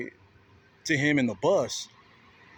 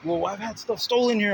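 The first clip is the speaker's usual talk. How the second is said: mock defensive guy; 7 semitones higher, 5 dB louder than usual. Guy's defensive excuse voiced.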